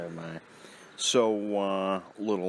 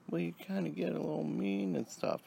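mimicking mother; 10 semitones higher than usual. Son mimics mother's reply.

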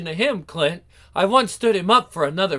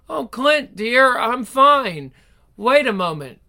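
sweet and coy; 4 semitones higher, 3 dB louder, slower than usual. Acted. Greets fiancé sweetly.

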